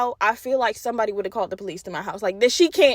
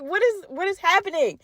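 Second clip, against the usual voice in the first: mock panic; 8 semitones higher than usual. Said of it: "I was like".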